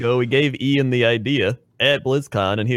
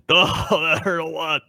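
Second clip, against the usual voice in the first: higher crying ogre shout; pained ogre voice; 4 semitones higher, slower than usual. Acted. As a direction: wail it like a hurt ogre. Ogre role-play fight.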